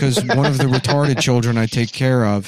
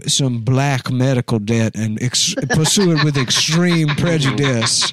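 Southern dandy voice. Retold or imitated. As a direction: savor each word like a fop. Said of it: "My cool Southern dandy voice".

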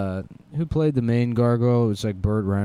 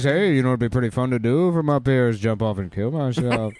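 gargoyle voice; 4 dB louder than usual. Pretend. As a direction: play a whiny cartoon gargoyle.

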